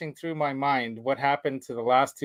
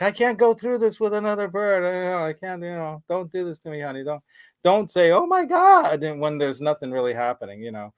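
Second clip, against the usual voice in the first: mild mock yell; 4 semitones higher than usual. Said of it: "I was yelling and screaming".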